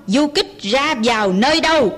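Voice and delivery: quick mild roar, pressing for answers; soldier roaring. Acted. Soldier interrogates the old mother, quick mild roar. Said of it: "Hắn rống hét".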